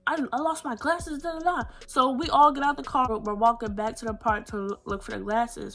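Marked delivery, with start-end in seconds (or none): 0.1-1.6 mock girl voice. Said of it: "She's like".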